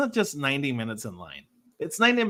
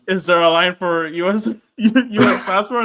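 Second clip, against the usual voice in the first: retold question; 5 semitones higher, 9 dB louder than usual. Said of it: "And I'm like".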